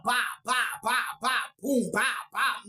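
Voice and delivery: rhythmic, punched-out bop sounds; imitated bashing noises. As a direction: drum out each hit as its own syllable. Imitates head bashed on window.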